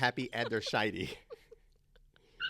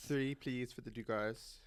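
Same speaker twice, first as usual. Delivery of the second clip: put-on French accent; 4 dB quieter, slower than usual. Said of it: "Is that your French accent?".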